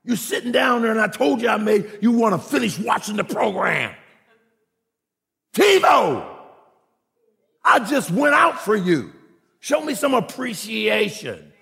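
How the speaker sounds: playing the neglected wife scolding; mock wife complaining. Pastor voicing a wife nagging her husband, mock complaint.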